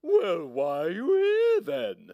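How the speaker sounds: loud, slow, sharp llama. Acted. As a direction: snap the question like a stern clerk. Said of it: "Replied the llama sharply".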